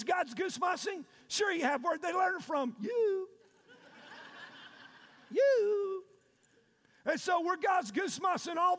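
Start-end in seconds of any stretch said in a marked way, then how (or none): 2.8-6.0 accusing shout. Acted. Pointing at congregation.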